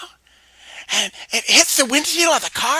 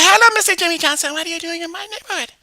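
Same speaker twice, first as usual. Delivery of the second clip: Mary voice; 7 semitones higher, 7 dB louder, faster than usual. Acted. Mary greets Jimmy in character.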